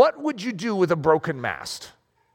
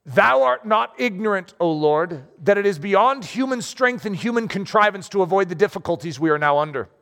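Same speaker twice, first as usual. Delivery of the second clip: solemn prayer reading. Acted. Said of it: "This is what Moses said".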